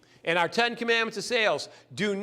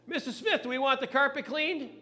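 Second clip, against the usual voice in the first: higher call with a laugh in it; 5 semitones higher than usual. Retold or imitated. Husband calling his wife about the carpet cleaning, laughing. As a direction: call to the kitchen, half laughing.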